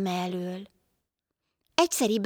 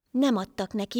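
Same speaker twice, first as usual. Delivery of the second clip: usual speaking voice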